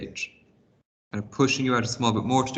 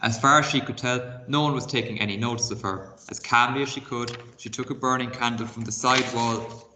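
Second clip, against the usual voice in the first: expressive read-aloud storytelling; reading a chapter book aloud to pupils; story narration. A narrator's reading. Teacher reads story aloud.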